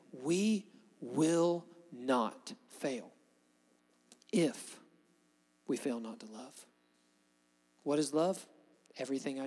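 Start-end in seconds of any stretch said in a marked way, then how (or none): 0.1-6.7 very slow, weighty proclamation of "will"; slow declaration. Shown as a demonstration. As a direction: declare each word deliberately. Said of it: "declare to you today".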